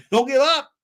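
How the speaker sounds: imitating Ngannou, slipping into an Indian accent; botched Indian-sounding accent. Streamer imitating Ngannou's pep talk, botched Indian accent. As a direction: try his accent and land on Indian. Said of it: "That's an Indian accent".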